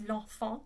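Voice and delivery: "l'enfant" with nasal vowels and silent T; French pronunciation. Shown as a demonstration. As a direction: say "l'enfant" as lahn-FAHN, N's not sounded. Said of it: "a word that we've already talked about".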